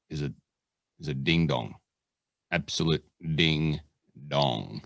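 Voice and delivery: practice radio voice. Pretend. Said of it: "that's me practicing my radio voice".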